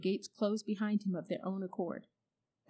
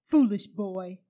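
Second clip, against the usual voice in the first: loud scornful witch's call; mock him loudly; the witch calling after the fleeing boy, loud and scornful; witch crying out; 12 dB louder, slower than usual. A narrator's reading. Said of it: "cried the witch".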